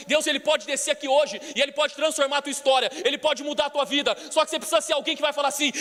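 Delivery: loud, high fiery sermon; full-force preaching. Acted. Pastor to congregation, fiery loud preaching. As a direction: preach it with fire to the church.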